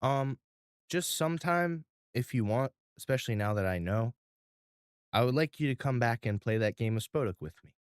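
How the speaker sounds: put-on shy little boy. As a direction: ask it bashfully. Ralphie asks shyly.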